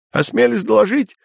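very high eager report; perked-up soldier. Acted. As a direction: report with new courage. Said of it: "приободрившийся Терман".

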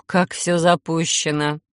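sympathetic. Acted. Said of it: "С сочувствием присвистнула я".

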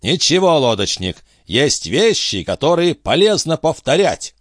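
a high-voiced captain grilling his friend; excitable old sea captain. A narrator's reading. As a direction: press him like a fussy old skipper. Antifer insists.

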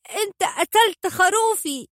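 put-on a small boy screaming in rage; spiteful furious shout. A narrator's reading. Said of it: "وصاح بحنق وغل".

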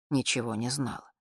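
usual speaking voice

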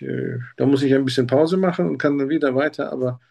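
ordinary talk

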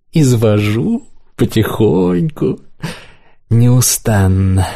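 slow creaky gloat; creaked. A narrator's reading. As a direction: creak it slowly. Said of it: "проскрипел я".

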